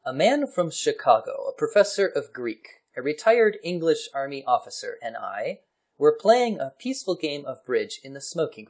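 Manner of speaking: theatrical story narration. Acted. Reading an old war article to a co-host, story narration. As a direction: read it out like a gentleman's tale.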